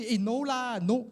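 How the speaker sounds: high-pitched, bashful brush-off; mock modest protest; shying away from praise. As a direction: bat the compliment away. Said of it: "We shy away".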